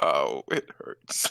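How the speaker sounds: amused, quiet chuckling under the breath. Acting a player character reacting to the innkeeper: chuckling to oneself. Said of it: "chuckle to myself".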